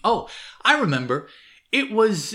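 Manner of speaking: like it just came back to her; excited recall. Retold or imitated. Old servant announcing she remembers, excited.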